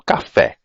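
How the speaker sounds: 'café' in two beats, ca-FÉ; 'café' with a strong final syllable; syllable separation. Shown as a demonstration. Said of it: "produzindo uma separação dentro da realização".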